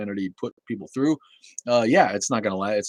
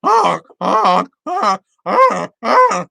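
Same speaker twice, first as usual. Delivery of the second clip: loud, much higher honking goose; goose impression; 12 semitones higher, 13 dB louder, much slower than usual. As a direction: honk like a silly goose. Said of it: "That's my goose impression".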